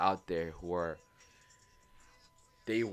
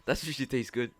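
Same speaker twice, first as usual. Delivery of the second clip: mock goofy voice; 6 semitones higher, 6 dB louder than usual. Joking voice about Japan, laughter.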